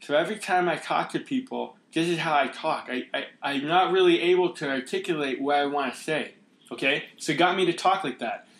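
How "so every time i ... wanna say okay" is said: lightly voiced character with a halting speech impediment, words struggling out; halting impeded speech. Shown as a demonstration. Actor demonstrating his class character to the host, halting impeded speech. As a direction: act out a character who can't quite get his words out. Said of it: "my voice of my character sounded like this".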